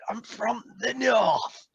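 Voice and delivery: a southerner overdoing Yorkshire; mock Yorkshire accent. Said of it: "as Yorkshire as a Southerner can go".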